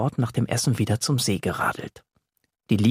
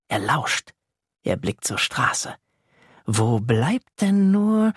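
ordinary delivery, nothing marked

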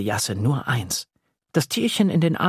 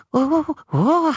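high gleeful monster chuckle; chuckling little monster; 4 dB louder than usual. Acted. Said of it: "gluckst das Ungeheuerchen". (kicherndes kleines Ungeheuer)

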